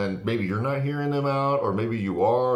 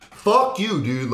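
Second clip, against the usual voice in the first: yelled high and loud; a sudden loud fuck-you; angry outburst; 9 semitones higher, 5 dB louder, much slower than usual. Real, not acted. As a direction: spit it out in disgust. Angry outburst at entitled people.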